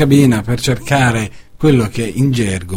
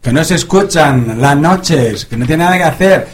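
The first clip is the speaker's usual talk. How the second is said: Spanish greeting. Real, not acted. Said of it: "un saluto in spagnolo".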